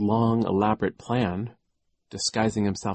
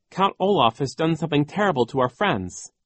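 raised, higher-pitched plea; mild urgent cry; 7 semitones higher, 4 dB louder than usual. A narrator's reading. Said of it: "he cried".

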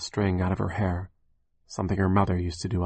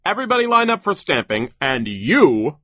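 much higher, loud muffled boss voice; terrible muffled foreman; 8 semitones higher, 8 dB louder than usual. A narrator's reading. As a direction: order the workers about grotesquely. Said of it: "he said".

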